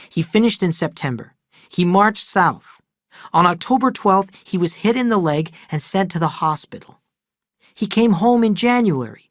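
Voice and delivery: a strained, pressing confession of the father's lies; upset older brother unloading bad news; Charles, troubled brother. Charles telling about father.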